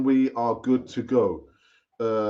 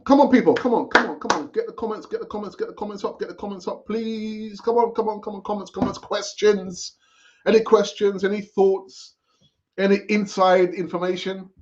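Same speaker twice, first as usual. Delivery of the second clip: eager pleading; 5 semitones higher than usual. Real, not acted. Begging viewers for comments.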